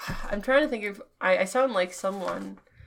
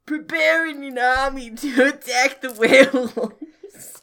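laughing; 2 semitones higher, 4 dB louder than usual. Acted. Retries line through laughter.

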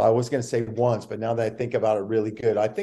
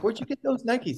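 mock curious; 12 semitones higher than usual. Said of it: "I'm like".

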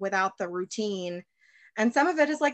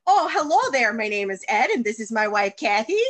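grandpa greeting; 2 semitones higher, 6 dB louder than usual. Retold or imitated. Grandpa greeting his grandson's girlfriend in the yard, hearty and loud. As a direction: boom out a hearty old-man hello. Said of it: "and he's like".

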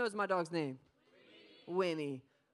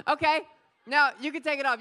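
laughing okay; 5 semitones higher, 10 dB louder, faster than usual. Real, not acted. Laughs at crowd.

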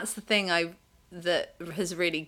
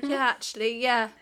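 wimpy half agreeing; 5 semitones higher than usual. Retold or imitated. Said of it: "half agreeing".

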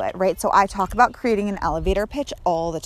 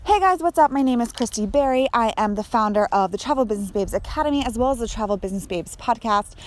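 perky elevator pitch, a bit quicker; upbeat intro pitch; faster than usual. Shown as a demonstration. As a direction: pitch yourself like a cheerful host. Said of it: "my about me would be, go something like this".

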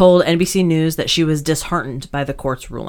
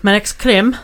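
mock French; 3 semitones higher than usual. Shown as a demonstration. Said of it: "that's how we say it in French".

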